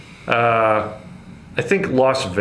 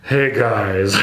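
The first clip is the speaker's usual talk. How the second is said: tired, deflated greeting; defeated pastor. Retold or imitated. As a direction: sigh it out like a beaten-down pastor. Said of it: "sounds like a defeated pastor".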